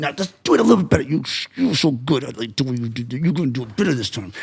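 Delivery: soft, quick, placating encouragement; nicer. Acted. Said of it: "make it a little bit nicer".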